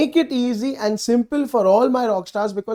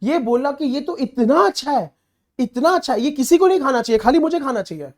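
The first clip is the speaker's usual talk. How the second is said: mock praise; 3 semitones higher, faster than usual. Shown as a demonstration. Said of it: "I'm just giving an example".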